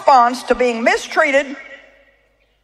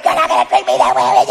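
mock timid reply; 12 semitones lower than usual. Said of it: "somebody's yelling at you and you're like".

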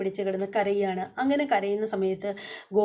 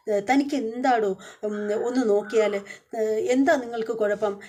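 mild mock roar; 2 semitones higher than usual. Husband confronting the doctor in a mild mock roar. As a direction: retell the angry challenge, understated. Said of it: "അലറി ദേഷ്യപ്പെടുകയാണ്".

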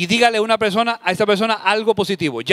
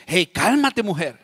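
dismissive; slower than usual. Retold or imitated. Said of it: "En vez de decir".

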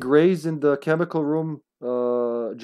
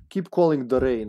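louder retake in mock Serbian accent; 3 dB louder than usual. Player repeats himself for teammates, Serbian accent. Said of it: "I'm doing the Serbian accent now".

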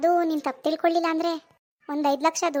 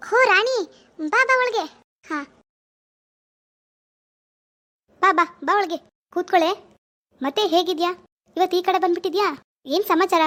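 delighted friend; 3 semitones higher, 4 dB louder than usual. Acted. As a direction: greet her like a thrilled old friend. Friend welcomes visitor.

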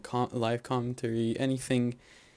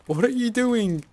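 loud, high WHAT ARE YOU DOING; high-pitched protest, falling at the end; exasperated shout; 11 semitones higher, 9 dB louder than usual. Real, not acted. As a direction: shout it in disbelief at a teammate. Exasperated at teammates.

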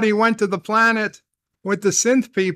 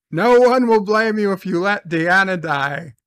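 said again louder and with more force; emphatic repeat; 4 dB louder than usual. Shown as a demonstration. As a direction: push it home the second time, louder.

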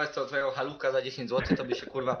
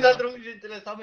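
mocking laugh; 9 semitones higher, 7 dB louder than usual. Real, not acted. Mocking repeat of opponent's claim.

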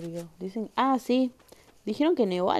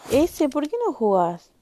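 higher, louder call to a friend; 7 semitones higher, 8 dB louder than usual. Real, not acted. Streamer calling a friend to join the game, loud and high. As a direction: shout across to get him to play.

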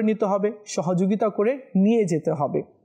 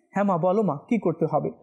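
gentle son; 3 semitones lower, much faster than usual. Shown as a demonstration. Preacher showing how a son answers his mother, gently. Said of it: "মায়ের কথা শুনতে হবে".

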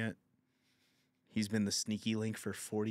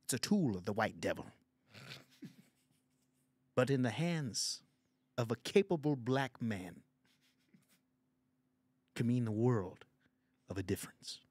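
Lawrence Fishburne voice. Acted. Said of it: "This is fucking Lawrence Fishburne".

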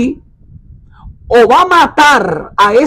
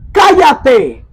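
rising commanding call, higher on the second; rebuke to the wind; 5 semitones higher, much slower than usual. Retold or imitated. Jesus rebuking the wind, a rising commanding call. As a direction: order the wind to hush, pitch climbing. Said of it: "le dice al viento, lo reprende".

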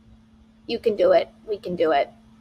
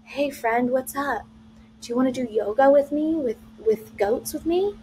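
calm voice; 3 dB quieter than usual. Retold or imitated. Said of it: "in a very calm voice".

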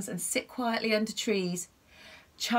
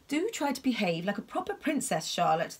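stern king voice. Acted. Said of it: "the king would say".

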